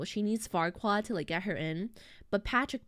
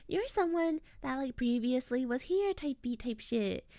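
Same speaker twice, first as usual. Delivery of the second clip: mock welcoming; 5 semitones higher, slower than usual. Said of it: "really welcoming to them".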